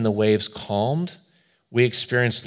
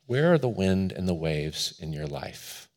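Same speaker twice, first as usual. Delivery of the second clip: quiet, pensive invitation to reflect; reflective question; 3 semitones lower, 5 dB quieter than usual. Real, not acted. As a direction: ask it gently and let it hang. Reflective question put to congregation.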